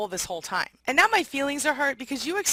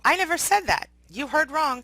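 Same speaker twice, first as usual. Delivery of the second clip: high, indignant denial; a hammed-up gaslighting denial; mock denial; 5 semitones higher than usual. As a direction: act offended and brush it off. Voicing a narcissist denying things.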